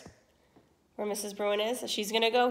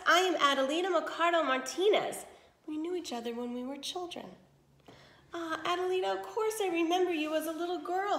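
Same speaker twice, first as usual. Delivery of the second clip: lively read-aloud to children, voicing each character; expressive story narration for young listeners; storybook reading. A narrator's reading. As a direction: tell it like a bedtime tale for the class. Teacher reads a story aloud.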